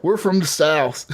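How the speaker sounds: slow imitated redneck drawl; Southern accent. Teller repeats where his teammates are from, slow imitated Southern accent. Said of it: "People don't talk like that".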